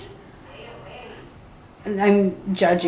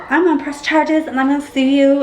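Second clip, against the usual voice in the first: higher-pitched mock complainer; mocking threat; 5 semitones higher than usual. Other mom threatening to sue, mocking imitation. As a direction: imitate someone threatening legal action. Imitating the kind who sues.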